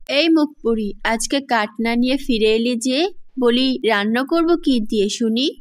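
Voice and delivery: mildly angry telling-off in a storybook voice; angry stepmother. Acted. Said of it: "রেগে গিয়ে তাকে বলে".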